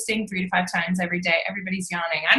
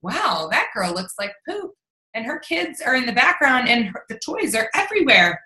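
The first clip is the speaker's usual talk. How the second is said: mock relatable viewer; 2 semitones higher than usual. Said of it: "they're gonna say".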